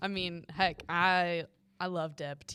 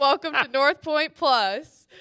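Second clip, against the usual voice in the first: higher, louder and slow; podcast voice; 7 semitones higher, 11 dB louder, slower than usual. Acted. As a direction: stretch it like a show host. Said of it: "This is your podcast voice".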